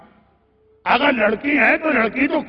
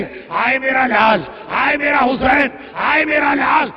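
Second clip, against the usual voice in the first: retold wail, chant-like cries; mourning lament. Veiled lady mourns her son on the ground, lamenting. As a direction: lament in measured, repeated cries.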